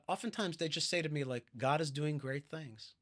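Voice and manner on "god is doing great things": put-on slow, light Southern accent; mild Texan-style Southern accent. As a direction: imitate a Southerner, unhurried. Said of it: "That's my southern accent".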